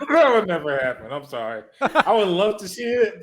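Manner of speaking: laughing through the words. Real, not acted. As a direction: giggle while saying it. Laughing while dismissing idea.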